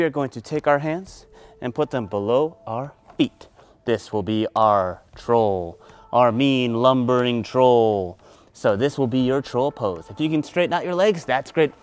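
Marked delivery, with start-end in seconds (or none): 3.8-8.2 slow, louder, lower lumbering delivery; drawn-out, heavy and low; lumbering emphasis. Acted. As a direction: weigh down each word like a lumbering troll. Introducing the mean troll character.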